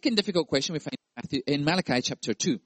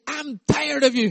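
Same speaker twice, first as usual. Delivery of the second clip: high, slow exasperated sigh; weary God; 11 semitones higher, 6 dB louder than usual. Pretend. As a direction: say it fed up, drawn out. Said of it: "God said".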